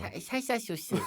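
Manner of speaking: 살사 소스 with s slurred toward sh; 살사 said with a slushy sh-like s. Shown as a demonstration. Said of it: "살사 소스 한 번만 다시 발음해 주세요".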